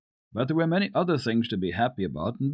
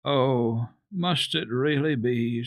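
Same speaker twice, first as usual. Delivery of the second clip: sighed; 4 semitones higher, slower than usual. Acted. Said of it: "sighed the grandmother".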